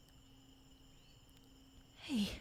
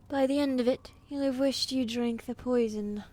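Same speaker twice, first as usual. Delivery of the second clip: louder, cold vicious threat; menacing threat; 5 dB louder than usual. Acted. Queen threatening the assassin with life in the dungeon, menacing. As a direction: promise her suffering.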